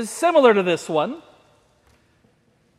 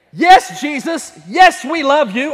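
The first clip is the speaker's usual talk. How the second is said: eager affirmation; 3 semitones higher, 5 dB louder than usual. Shown as a demonstration. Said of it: "When we say".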